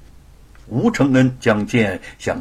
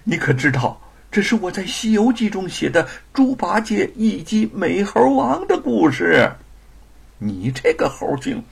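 mock scolding; 8 semitones higher than usual. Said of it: "口中嗔怪着".

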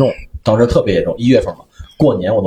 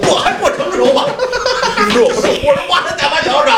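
high, laughing, much higher; squeaky laughter through words. Real, not acted. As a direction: crack up while telling. Laughing at own past.

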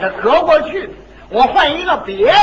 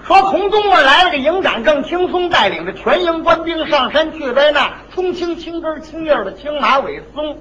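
tongue twister. Shown as a demonstration. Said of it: "我得气缓匀了啊".

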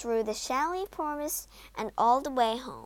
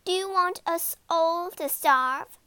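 loud, raised-pitch challenge; angry demand; 5 semitones higher, 7 dB louder than usual. Acted. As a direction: bark the question angrily. Stepmother barks in a quarrel.

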